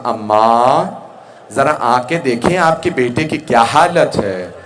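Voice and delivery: tearful appeal. Retold or imitated. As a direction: call out as if weeping, without real sobs. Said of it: "बीबी ने रो के कहा".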